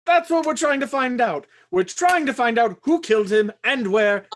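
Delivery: insist, voice rising in exasperation. Acted. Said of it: "There's no need to shout".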